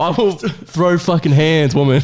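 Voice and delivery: slow, drawn-out mock threat; mock tough threat. Friend playfully echoing the fighter's threat. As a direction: lean on each word like a hard man. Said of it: "friend echoing the threat".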